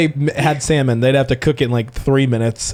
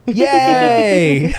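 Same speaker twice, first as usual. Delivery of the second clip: excited cheer; 7 semitones higher than usual. Real, not acted. Cheering good news.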